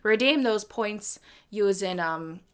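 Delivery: casual, amateur Irish accent. Shown as a demonstration. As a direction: explain in a put-on Irish accent. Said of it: "making me do an Irish accent".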